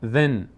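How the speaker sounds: "ذن" as one syllable "dhin", N held; tongue-tip dh, short i, closing on N; ذال joined to نون. Shown as a demonstration. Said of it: "کسرهٔ زال میچسبه به نون". («ذِن» با نونِ ساکن)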